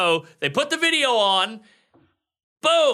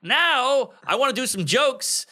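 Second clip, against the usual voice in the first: flustered panic; 3 semitones higher than usual. Retold or imitated. Comic's panicked thoughts.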